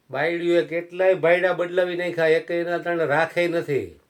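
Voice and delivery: mild stern rebuke. Acted.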